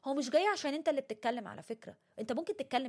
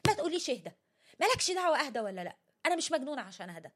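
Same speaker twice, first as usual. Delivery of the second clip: higher, louder, quickening snap back; irritated outburst; 3 semitones higher, 4 dB louder, faster than usual. Retold or imitated. Upset person snapping at whoever said calm down, fast and irritated. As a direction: imitate someone fed up with being told to calm down. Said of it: "بتسبب لهم انفعال أكتر".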